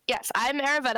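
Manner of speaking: usual speaking voice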